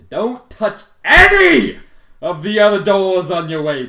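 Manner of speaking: very high, very loud, dragged-out slow bellow; a mock-furious receptionist; hammed-up shouted order. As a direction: yell the rule at her like a drill sergeant. Receptionist voiced barking an order.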